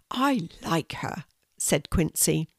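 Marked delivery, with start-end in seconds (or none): 0.1-1.2 lightly voiced little spider, breathy; a hint of a shy little creature, whispery; small spider voice. A narrator's reading. Small spider Quincy voiced in story.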